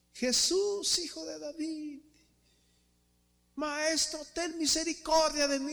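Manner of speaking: high desperate plea of a mother calling after Jesus; pleading cry. Retold or imitated. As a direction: cry out for mercy from far behind. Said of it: "iba gritando atrás de Jesús". (súplica aguda de una madre que grita tras Jesús)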